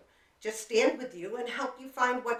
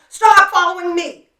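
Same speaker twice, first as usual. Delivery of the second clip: loud, high, pretend yell at a stranger; 11 semitones higher, 21 dB louder than usual. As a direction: shout it to make the follower stop. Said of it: "I could turn around and yell".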